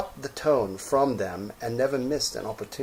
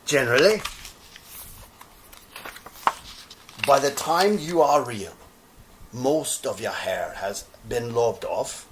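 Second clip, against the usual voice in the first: put-on old horse voice. Skin Horse voiced explaining.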